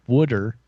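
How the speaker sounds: "wooder" with a Philly d sound for t; "wooder", flapped Philly vowel. Shown as a demonstration. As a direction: say "wooder" like a Philadelphian. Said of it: "you could keep it simple and just say".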